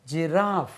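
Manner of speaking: जिराफ ending on a clear f; correct pronunciation. Shown as a demonstration. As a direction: say जिराफ with a crisp f at the end. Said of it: "ये जिराफी नहीं होता".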